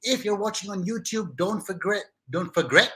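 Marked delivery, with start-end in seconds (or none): 1.4-2.9 "forget" said as "for-gret"; joke mispronunciation. Pretend. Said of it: "forget tu lah satu perkataan yang kita".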